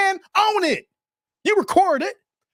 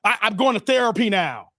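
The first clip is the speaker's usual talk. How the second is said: meek mock voice; 5 semitones lower than usual. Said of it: "J. Cole gonna be like".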